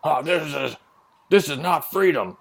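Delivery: high, mocking patriot whine; mock outraged patriot. Mocks imagined complainers about the flag painting, in a high whiny voice. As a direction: parody someone offended by the flag. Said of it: "No one was in there like".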